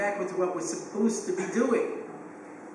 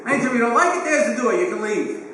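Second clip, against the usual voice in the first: louder, firm fatherly ultimatum; stern father; 4 semitones higher, 6 dB louder than usual. Retold or imitated. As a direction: lay down the law like an old-school father. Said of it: "Father would say to me".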